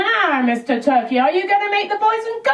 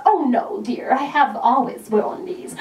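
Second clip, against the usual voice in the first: lightly voiced Cassandra; 5 semitones lower than usual. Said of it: "Cassandra coming".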